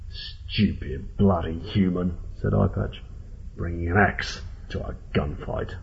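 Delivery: slow, drawn-out scorn; understated, unhurried contempt; contemptuous possum boss. Acted. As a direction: sneer it slowly and deliberately. Possum boss mocks armed captive.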